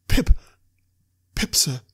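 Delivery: put-on frightened boy forcing his voice out; speaking up on demand. A narrator's reading. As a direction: blurt the name out, then settle. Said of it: "Give it mouth".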